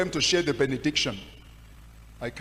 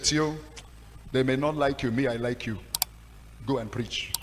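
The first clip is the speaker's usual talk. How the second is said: reassuring; 2 semitones lower than usual. Retold or imitated. Pastor reassuring him.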